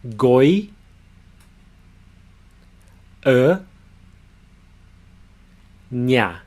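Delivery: Goi, E, Nha as separate beats; syllable by syllable. Shown as a demonstration. Teacher breaks Goiânia into syllables for students. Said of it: "break it down into the three syllables".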